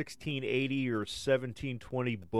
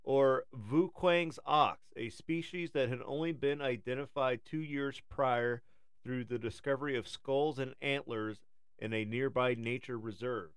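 nature documentary; 3 semitones higher than usual. Acted. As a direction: read it like a wildlife film. Reads a documentary script.

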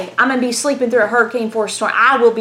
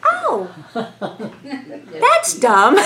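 laughing; much slower than usual. Retold or imitated. Retelling her own reply, laughing.

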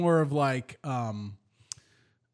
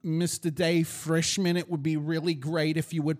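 put-on New York accent over the PA. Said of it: "doing it off the cuff".

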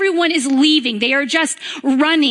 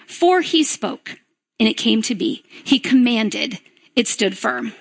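scripture reading; 3 semitones lower than usual. Acted. Reads Psalm 33 aloud.

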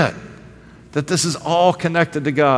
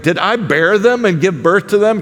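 sarcastic Moses; 5 semitones higher than usual. Retold or imitated. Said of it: "Can you hear Moses' sarcasm to God?".

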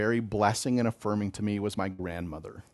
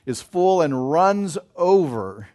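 psalm quote, building; 6 semitones higher, 7 dB louder than usual. Acted. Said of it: "As David says".

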